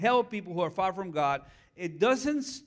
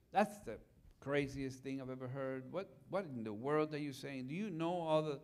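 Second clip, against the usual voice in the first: incredulous advice monster; 5 semitones lower, 11 dB quieter than usual. Retold or imitated. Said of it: "my advice monster is".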